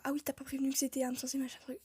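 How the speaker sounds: rapid-fire mimicked scolding; imitating a nagging complaint at double speed; mock telling-off. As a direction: rattle off a complainer's reproach, trailing away. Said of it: "me fasse engueuler comme quoi".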